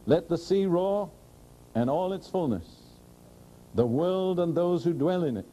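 read with real faith. Shown as a demonstration. Preacher proclaims the psalm to the congregation with real faith, fervent. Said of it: "now I'm going to read this with real faith".

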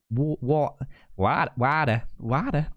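"water" tried as American "wah-der"; attempted American "water". Shown as a demonstration. Streamer retrying the word for viewers, unsure American accent on "water". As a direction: have a halting go at American "water". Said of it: "I can't do it".

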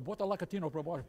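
quick mock-Spanish patter; lightly put-on Spanish accent; Spanish-style Portuguese. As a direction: imitate father passing Portuguese off as Spanish. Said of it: "my father put it with, like, a Spanish".

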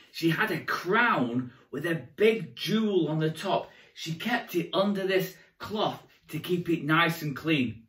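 put-on storytelling to young children; kids party magician. A narrator's reading. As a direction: tell it like a children's entertainer.

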